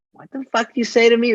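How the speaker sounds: high, indignant snap; mock Pesci anger. Imitating Pesci snapping at the stranger. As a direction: bristle at the stranger.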